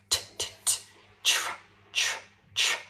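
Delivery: breathy isolated t then tr, repeated; whispered t and tr drill; sound drill. Shown as a demonstration. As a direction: build tr from a crisp t. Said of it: "Practice the two sounds individually".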